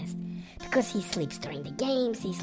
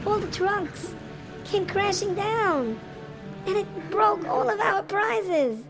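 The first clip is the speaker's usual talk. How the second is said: tearful lament; 4 semitones higher than usual. Acted. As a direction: mourn each broken prize. Broken prizes, everyone crying.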